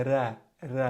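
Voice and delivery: ra said light and thin. Shown as a demonstration. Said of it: "just say".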